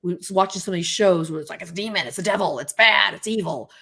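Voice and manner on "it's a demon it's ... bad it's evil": evil voice. Acted. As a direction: play the unhinged villain. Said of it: "that's my evil voice".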